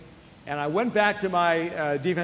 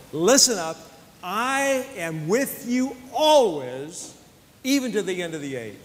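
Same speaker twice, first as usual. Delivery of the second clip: voicing Jesus. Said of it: "He said".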